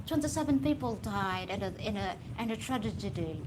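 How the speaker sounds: lightly imitated British newsreader; mock BBC British accent reading grim news; BBC reporter accent. Speaker as BBC reporter announcing a tragedy, British accent. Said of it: "the B B C News".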